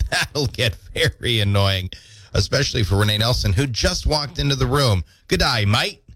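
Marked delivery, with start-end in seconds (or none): 5.3-6.0 mock Aussie. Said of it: "Can you say".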